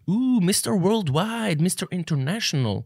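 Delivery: high, slow teasing sing-song; mocking. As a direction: sneer like you're mocking a show-off. Mocking people who speak English.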